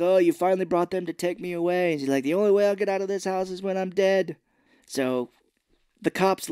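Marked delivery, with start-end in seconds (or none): 0.0-1.9 higher complaining mother voice; lightly acted accusing mother; mock yelling Mama. Imitating Mama accusing her son, mock yelling. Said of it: "She's yelling 'cause she's like". 2.2-4.4 higher put-on mother voice; mildly hammed-up defiant mother; mock yelling Mama. Imitating Mama refusing to leave, mock yelling. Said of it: "She's yelling 'cause she's like".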